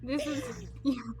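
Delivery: lightly voiced valley girl superhero; ditzy valley girl playing Batman. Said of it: "you wanted me to be a Valley Girl Batman".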